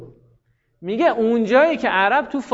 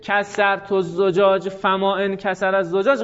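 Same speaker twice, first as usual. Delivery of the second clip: slow wrong example. Shown as a demonstration. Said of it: "غلطه".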